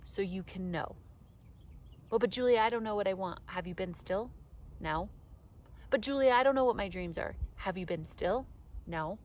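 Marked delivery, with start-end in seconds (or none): 2.1-3.4 mock whiny objector. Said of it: "imagined whiny listener". 5.9-7.4 mock whiny objector. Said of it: "imagined listener objects".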